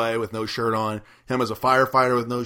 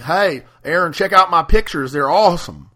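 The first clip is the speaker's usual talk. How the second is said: loud, raised, hammed-up excitement; excited imitation; 5 semitones higher, 7 dB louder than usual. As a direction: show off like a thrilled friend on the phone. Imitates Timbo proudly phoning about pictures.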